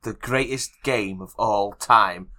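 slow, grand segment announcement; announcer intro. Pretend. Co-host introducing the greatest game segment, slow announcer delivery. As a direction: announce it slowly, word by word.

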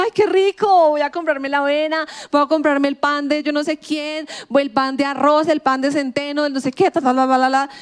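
mock delight at trendy food; gushing excitement. Someone scrolling social media, mock thrilled. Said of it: "y uno dice".

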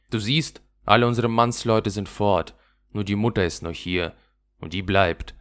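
a hint of a rough little robber girl showing off. Räubermädchen schmiedet einen Plan. (leicht gespieltes wildes Räubermädchen, prahlend)

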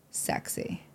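breathy whispered aside. Retold or imitated. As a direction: whisper it like a secret thrill. Mock whisper at TV welcome.

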